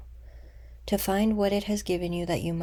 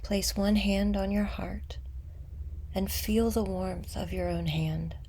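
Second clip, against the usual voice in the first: unhurried meditation guide, long pauses between phrases; guided meditation; 4 dB quieter than usual. Acted. Guide leading listeners to meet an old wound with compassion, guided meditation. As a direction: guide them gently inward, letting phrases settle.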